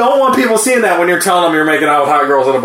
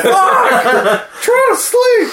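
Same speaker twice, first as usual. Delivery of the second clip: high, sleepy angry shout; annoyed yell; much slower than usual. Retold or imitated. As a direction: yell it, woken up and furious. Woken sleeper yelling.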